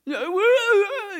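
put-on squeaky high child's voice; high-pitched toddler asking where; high little girl.

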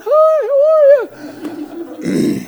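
very high squeaky hello; pained greeting. Retold or imitated. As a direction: squeak out a greeting after a painful blow. Speaker greets after being hit.

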